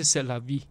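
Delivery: C'est la vie said the French way, light and smooth; French phrase. Shown as a demonstration. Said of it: "也要教我们一句法文".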